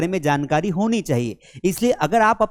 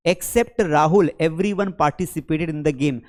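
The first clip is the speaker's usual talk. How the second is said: slow example; 2 semitones lower, much slower than usual. Shown as a demonstration. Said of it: "example sentence".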